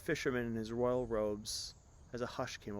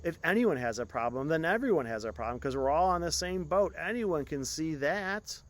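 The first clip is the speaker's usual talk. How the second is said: slowly repeating; 4 semitones higher, 7 dB louder than usual. Acted. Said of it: "repeated the words slowly".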